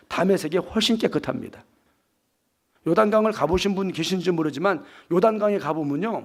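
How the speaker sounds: ordinary delivery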